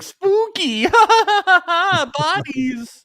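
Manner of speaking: high squealing mock excitement, laughing through it; mocking Kat's thrill. Host mocks Kat treating his funeral job as a joke, high laughing squeal. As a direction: squeal it like a kid at a haunted house. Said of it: "She's like".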